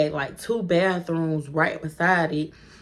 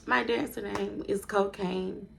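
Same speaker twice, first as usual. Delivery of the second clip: playing it cool; 2 semitones higher, 7 dB quieter, slower than usual. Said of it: "I'm trying to play it cool".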